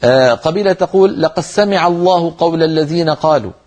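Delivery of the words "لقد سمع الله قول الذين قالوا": "لقد سمع" as laqas-samiʿa, doubled s; merged dāl. Shown as a demonstration. Teacher showing a tribe's reading, "لقد سمع" merged. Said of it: "فيدغمون الدال في السين".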